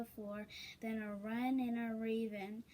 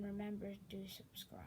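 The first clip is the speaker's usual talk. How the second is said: soft unvoiced aside; whisper; 6 dB quieter, faster than usual. Real, not acted. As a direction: whisper the reminder.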